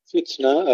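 فتنة with the ta breathed, not bounced; whispered ta. Shown as a demonstration. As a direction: let the ta of فتنة escape with breath. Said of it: "الهمس التاء". (همس التاء في فتنة)

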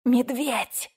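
ordinary delivery, nothing marked

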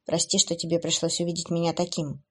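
sad apology. Acted. Kevin apologizing to Abby, mildly sad. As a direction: say sorry quietly, ashamed. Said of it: "с грустью произнёс он".

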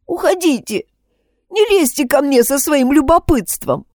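high, tearful push-away; tearful outburst. Acted. Upset girl sends her friends away, tearful outburst. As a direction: cry at them to leave you alone.

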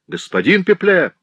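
high, loud summons. A narrator's reading. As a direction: call him sharply from above. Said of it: "ещё настойчивее прозвучал голос".

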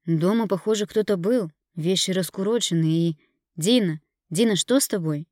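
husband panicking about the wrecked flat; alarmed husband. Acted. Husband finding the flat wrecked, alarmed and loud.

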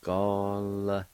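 "Gall-sa-di" drawn out, L closing the first syllable; slow "Gall-sa-di", sounding the L with the G-A; L joined to GA. Shown as a demonstration. Teacher showing the first part of the word, slow "Gall-sa-di" with L on "Gall". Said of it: "pronounce the L sound with the G A like this".

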